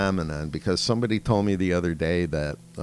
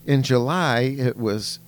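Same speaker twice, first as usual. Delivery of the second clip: higher, louder mock child voice; a hammed-up schoolgirl presenter, pitched up; imitating a little girl; 5 semitones higher, 5 dB louder, slower than usual. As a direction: play the kid doing a grown-up speech, higher and louder. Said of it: "And she goes".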